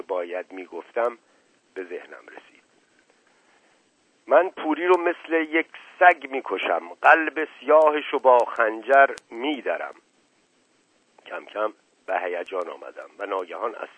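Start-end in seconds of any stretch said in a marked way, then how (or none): 4.3-9.9 higher, louder vengeful vow; angry threat. Acted. Boy vowing revenge on his rival, heated.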